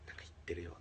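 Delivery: soft unvoiced whisper to himself; whispered thought. Inner thought while overhearing. (ささやき声で独り言)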